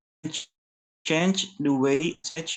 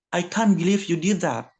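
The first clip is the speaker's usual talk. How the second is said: a mild, slightly louder demo of anger; understated reproach; lightly angry example line; 2 semitones higher, 3 dB louder than usual. Shown as a demonstration. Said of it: "Spoken quickly and loudly".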